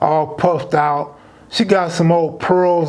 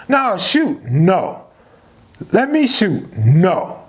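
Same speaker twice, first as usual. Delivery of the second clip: pleading friend; slower than usual. Retold or imitated. Pup begging to keep playing.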